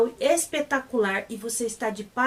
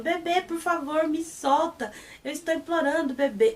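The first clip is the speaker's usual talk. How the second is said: cute pleading; 4 semitones higher than usual. Retold or imitated. Pet sweetly begs his boyfriend to let go, cute pleading. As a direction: coo it like a sweet plea. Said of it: "tão bonitinho ele falando".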